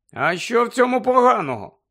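high, loud surprised question; startled query, voice lifted. A narrator's reading. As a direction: ask in open astonishment. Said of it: "здивувався Гаррі".

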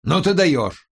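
high, exasperated outburst; flaring up. A narrator's reading. Colleague flares up at the suggestion, exasperated. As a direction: erupt in disbelief at the idea. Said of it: "взвился Борис".

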